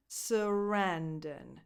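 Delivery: slow "Sarandon" with stress on RAN; suh-RAN-dun, taken slowly; second-syllable stress. Shown as a demonstration. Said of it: "The stress goes on the second syllable".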